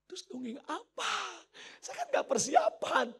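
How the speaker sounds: imitated wife in high-pitched panic; panicked protest. Wife tells husband she is unprepared for storytelling, high panicky protest.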